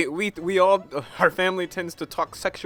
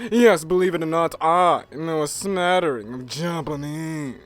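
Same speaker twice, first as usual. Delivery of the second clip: slow, haughty, mannered gentleman; a lightly put-on pompous sleuth; John Pierre voice; slower than usual. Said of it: "my John Pierre voice".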